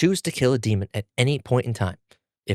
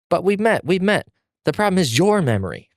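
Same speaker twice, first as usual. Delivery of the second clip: screaming back; 9 semitones higher than usual. Acted. Zenitsu screaming back at Tanjiro, high frantic yell. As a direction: shriek it back insisting. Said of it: "Zenitsu screaming back".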